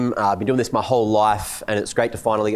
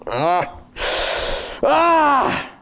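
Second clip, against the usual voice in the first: short groan rising into a high-pitched yell; exasperated yell. Acted. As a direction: cry out twice, the second far higher. Exasperated outburst after long flight.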